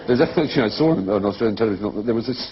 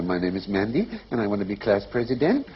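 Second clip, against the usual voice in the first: MANDY and PRESIDENT each lifted questioningly; upspeak; 4 dB quieter than usual. Acted. Imitating West Coast female talk, upspeak. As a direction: end "Mandy" and "president" on a rise. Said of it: "they go up at the end".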